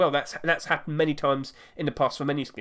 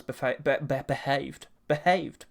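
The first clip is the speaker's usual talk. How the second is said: tripping over the word, then restarting; tongue-tied stumble. Real, not acted. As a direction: stumble on the first syllable, then repeat the word. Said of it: "I can't speak words anymore".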